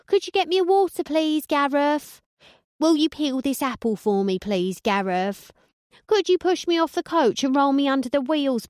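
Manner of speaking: high, loud, bossy wife nagging; barking orders. Acted. Wife bossing husband on the coach, loud and high. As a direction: bark each order at him, shrill demand. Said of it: "the myriad orders she barked".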